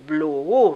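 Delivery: "Blue U" con la U acentuada; acento en la U. Shown as a demonstration. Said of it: "con acento en la U". (la U de "Blue U" marcada y alargada)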